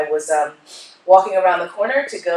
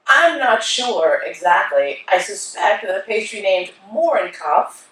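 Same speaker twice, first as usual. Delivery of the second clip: retold pointed objection; 2 semitones higher, 4 dB louder than usual. Retelling careful objection.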